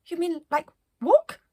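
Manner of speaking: appalled at the idea of walking; Yoga Breaths, dismayed. Acted. Stiff Yoga Breaths reacts to walking, high and dismayed. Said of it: "said Yoga Breaths".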